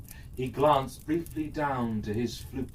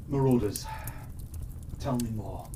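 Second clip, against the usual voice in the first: gently; 4 semitones lower, 5 dB quieter, faster than usual. Acted. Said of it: "he said gently".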